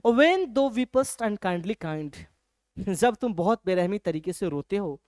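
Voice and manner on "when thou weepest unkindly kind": very slow, measured recital; slow poem reading. Shown as a demonstration. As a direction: read the verse word by word. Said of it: "आगे वो कहते हैं".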